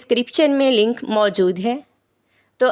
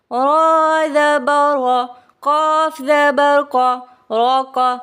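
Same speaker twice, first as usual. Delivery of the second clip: spelling-drill recitation. Shown as a demonstration. Teacher demonstrating Qaida spelling to learners, measured drill chant. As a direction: chant each letter, then join the syllables. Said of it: "इस तरह से करेंगे".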